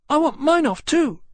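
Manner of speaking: high, loud, squeaky-small dragon voice; chirping little dragon. A narrator's reading. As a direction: pipe up suddenly as an eager little dragon. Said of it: "chirped one of the Winchesters suddenly".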